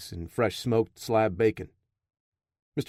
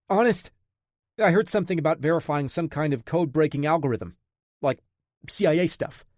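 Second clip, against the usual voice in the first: frightened; 4 semitones higher than usual. Acted. Terrified captive answering gunman.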